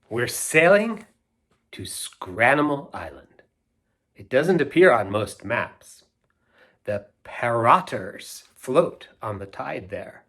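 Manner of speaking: put-on lilting read-aloud verse for kids; sing-song children's poem reading. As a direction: recite it like a storybook rhyme.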